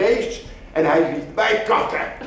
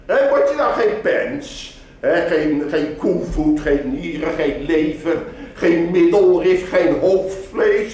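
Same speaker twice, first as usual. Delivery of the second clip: hawking tripe seller. Acted. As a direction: sell the offal to the passer-by. (marktkoopman die zijn waar aanprijst)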